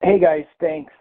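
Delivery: normal talking voice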